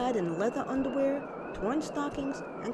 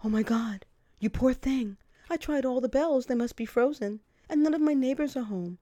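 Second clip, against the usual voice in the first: a touch louder, gushing apology; flustered apology; 4 semitones higher, 5 dB louder than usual. Retold or imitated. Boyfriend apologizing to her over the phone, gushing.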